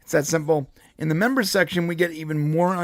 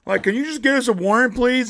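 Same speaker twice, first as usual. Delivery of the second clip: meek husband; 7 semitones higher than usual. Retold or imitated. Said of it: "He's like, literally".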